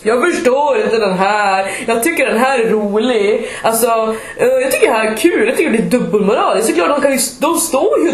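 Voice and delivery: lightly voiced indignant organiser; a hint of a huffy arranger; mock organiser. Exhibition organiser objecting to photos, mildly huffy voice. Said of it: "kommer en av arrangörerna ... och bara".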